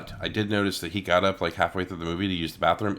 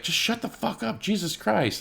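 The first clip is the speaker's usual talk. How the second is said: much higher, whiny mock of the stranger; mocking a whiny guy; 13 semitones higher than usual. Theater stranger exasperated at the talkers, high whiny mockery. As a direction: squeak it out like an exasperated man. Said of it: "he was like".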